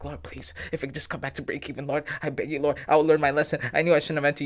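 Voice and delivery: half-joking plea to God; imitating a trader begging for break even; mock desperate prayer. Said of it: "You start praying hard".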